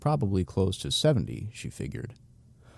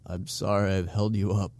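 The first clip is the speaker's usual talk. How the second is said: apologetic. Acted. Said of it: "Stu said apologetically".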